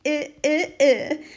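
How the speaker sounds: high, grossed-out "I, I, I"; disgusted icky. Pretend. Child sprayed by the elephant, grossed-out squeal. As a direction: squeal like you got sprayed. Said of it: "Just think icky".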